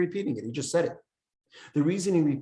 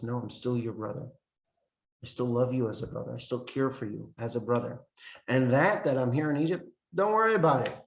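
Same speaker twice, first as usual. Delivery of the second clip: softer approach; 2 semitones lower than usual. Retold or imitated. Joseph comforting ashamed brothers, softer and reassuring. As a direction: ease their pain gently. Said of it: "to a softer approach".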